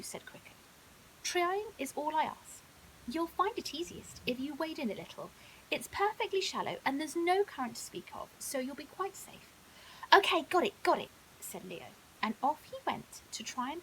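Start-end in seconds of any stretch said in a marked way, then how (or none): 1.2-9.5 lightly voiced clever crocodile, a touch higher; sly, helpful crocodile, a hint of a character voice; a clever old crocodile being charming; crocodile Crickle. 10.1-11.1 eager. Acted. Leo eager to go fishing.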